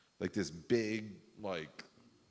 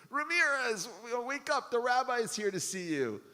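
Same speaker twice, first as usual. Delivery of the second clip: high, louder call to wake him; guard yelling; 3 dB louder than usual. Retold or imitated. Guard shouting to wake Ramirez a second time. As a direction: bark it through the bars, losing patience.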